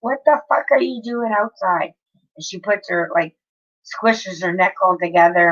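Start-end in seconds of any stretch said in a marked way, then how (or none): 0.0-1.9 half-acted fury at a cat caught outside; retold angry yell. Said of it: "and I go".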